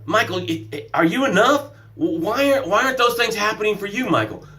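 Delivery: lightly acted badgering inner critic; self-doubt beating him up. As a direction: badger him, pitch lifting on the questions. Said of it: "My Am I Enough was beating me up yesterday".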